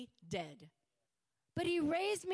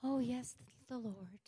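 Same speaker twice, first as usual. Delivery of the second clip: half-hearted lukewarm. Retold or imitated. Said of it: "we're all like".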